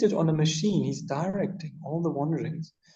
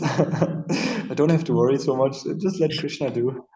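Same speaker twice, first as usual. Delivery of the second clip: laughing. Real, not acted. Laughs at hoping Krishna takes over.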